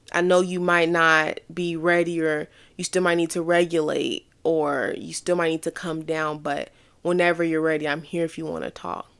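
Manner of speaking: mild patient reassurance to someone calming down; patient gentle tone. Retold or imitated. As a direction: offer space kindly without pushing. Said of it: "That patience".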